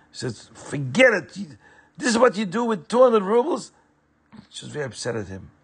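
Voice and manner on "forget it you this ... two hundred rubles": higher, bitter reproach; scornful disbelief; angry. A narrator's reading. Wife's bitter retort.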